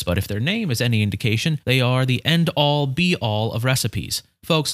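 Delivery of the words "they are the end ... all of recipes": slow grand emphasis. Acted.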